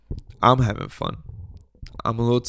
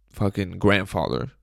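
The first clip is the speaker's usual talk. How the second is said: usual speaking voice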